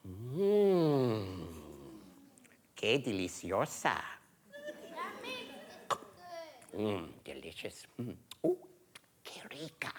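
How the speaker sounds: relishing something delicious; savoring a pear. Acted. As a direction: savor each bite, voice dropping away. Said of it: "she'd go like this".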